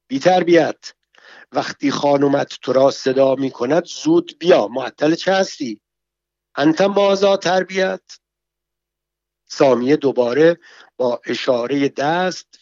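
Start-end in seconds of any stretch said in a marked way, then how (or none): 0.1-8.0 angry scolding. Acted. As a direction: tell the servant off harshly. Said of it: "با تغییر و تشدد گفت".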